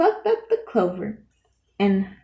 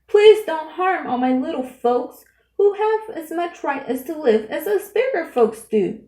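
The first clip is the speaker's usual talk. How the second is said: begging; 7 semitones higher, 4 dB louder than usual. A narrator's reading. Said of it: "and begged".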